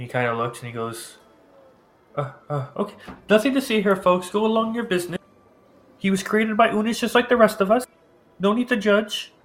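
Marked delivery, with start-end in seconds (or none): 2.2-9.3 put-on old priest voice.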